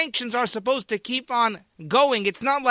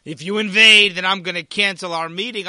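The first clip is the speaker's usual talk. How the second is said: mock tough threat; 2 semitones lower, 6 dB louder than usual. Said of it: "Biden really has Putin right where he wants him".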